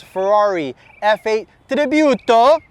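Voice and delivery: Ferrari F eight Tributo said slowly in a playful Italian accent, rolled r in Tributo. Shown as a demonstration. Car dealer showing off a Ferrari to viewers, mock Italian accent. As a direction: ham up Tributo the Italian way, stretched and sung out. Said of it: "I have to say it with that accent".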